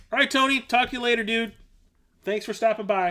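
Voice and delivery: calling out. Real, not acted. Calling out to friend leaving.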